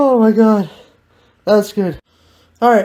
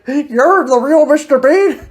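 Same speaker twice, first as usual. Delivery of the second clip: laughing disbelief; 5 semitones higher than usual. Real, not acted. Amused disbelief.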